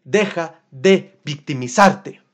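slow, firm reprimand; slow stern telling-off; stern self-scolding. Retold or imitated. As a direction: tell yourself off deliberately. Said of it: "y dije".

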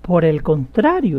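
firm, drawn-out rebuttal; mildly confrontational retort. Retold or imitated. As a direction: quote it as a direct, slow correction. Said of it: "muy directa y confrontacional".

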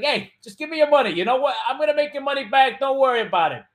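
high, loud, brash mock Italian American; pushy Italian hustler. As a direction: play a pushy money-taker, loud and high. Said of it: "that's a pretty Italian name. She's like".

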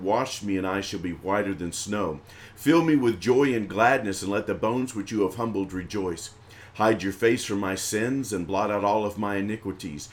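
measured reading, each verse falling away at the end; psalm and prayer recitation. Real, not acted. Leader praying Psalm fifty for viewers, reverent recitation. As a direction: recite scripture as a steady prayer.

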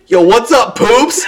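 mock high, excited greeting; boisterous greeting, imitated. Farmer running in to greet Poops, imitated boisterous greeting.

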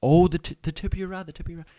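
excited fishing buddy. Acted. Friend coaching an angler reeling in a fish, building excitement. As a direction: call out to the angler, rising into panic.

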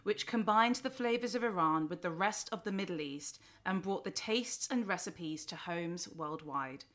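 scripted host introduction; lifted openings, falling line endings; podcast intro. Real, not acted. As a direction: present the guest in a prepared read.

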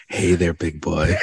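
low, slow sultry tease; sexy voice. Pretend. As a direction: purr it like a flirt. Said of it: "had more of a sexy".

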